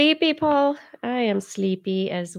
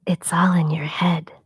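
ordinary talk, nothing marked

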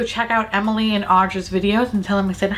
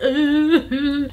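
mock hysterical sobbing; 7 semitones higher than usual. Imagining a sloth clinging to them, mock sobbing. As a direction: pretend happy sobbing, a little higher. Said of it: "literally gonna be crying hysterically".

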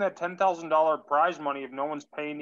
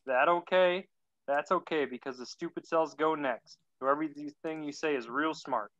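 put-on pathetic Southern accent. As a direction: read it in a weak Southern accent. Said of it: "a very pathetic Southern accent".

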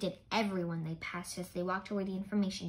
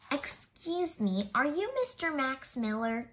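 loudly; 4 semitones higher than usual. Acted. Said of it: "Eric said loudly".

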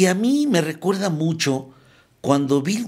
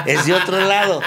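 laughing aside; 5 dB louder than usual. Real, not acted. Laughing about the new man.

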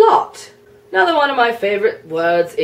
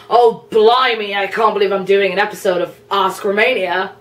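mock surprise; 4 dB louder than usual. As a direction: act mildly shocked. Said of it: "excitement or anger or surprise".

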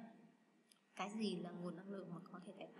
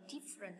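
"different" with the first syllable stressed. Shown as a demonstration. Teacher showing students word stress, first syllable of "different" stressed. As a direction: hit the start of "different". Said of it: "nhấn âm đầu".

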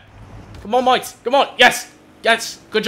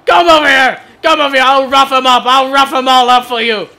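mock tough guy; 6 semitones higher, 8 dB louder than usual. Mock threat in game.

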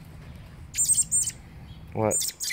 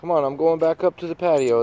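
high sing-song call to a bird; coaxing a wild bird; 7 semitones higher, 4 dB louder than usual. Real, not acted. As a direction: coax the bird along, higher and louder. Calling a bird to follow.

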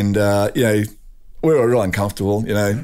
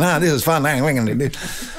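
higher-pitched, playful retelling; mock giddy excitement; 4 semitones higher than usual. Mate dancing around like an idiot, mock giddy excitement. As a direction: act out an idiot having fun. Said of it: "dancing around like an idiot, you know, thinking".

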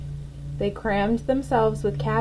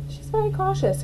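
lightly voiced high caterpillar; 12 semitones higher than usual. A narrator's reading. Another caterpillar agrees about Clara, high and light. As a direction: squeak it out like a tiny bug. Character voice.

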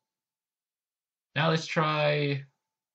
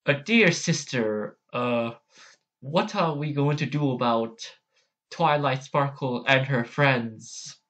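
Princess Luna; 2 semitones higher than usual. Acted. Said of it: "I do wanna try Luna's again".

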